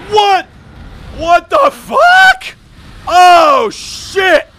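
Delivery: very high, loud panicked shouts; shocked screaming. Real, not acted. Player facing sudden death in game, shocked screaming. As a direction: scream it in disbelief and alarm.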